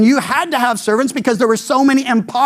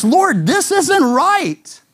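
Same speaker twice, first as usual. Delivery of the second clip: Peter protesting; 7 semitones higher, much slower than usual. Retold or imitated. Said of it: "He's saying, in essence".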